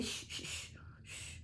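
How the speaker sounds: soft whispered shh; quiet everyone down gently; shushing. Real, not acted. Hushing noisy children.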